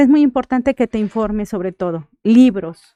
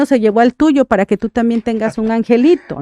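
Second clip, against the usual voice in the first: mock bitter retort. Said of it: "frases preconcebidas y terribles".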